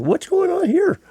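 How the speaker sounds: high, bewildered what's-going-on; puzzled crowd. Retold or imitated. Crowd reacting to the band's sudden drop-out, surprised. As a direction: sound suddenly lost and confused.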